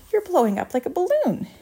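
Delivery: high-pitched panicked cry; horrified screech. A narrator's reading. Mother sees Violet inflate, high horrified screech. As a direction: screech it in rising alarm. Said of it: "screeched Missus Beauregard".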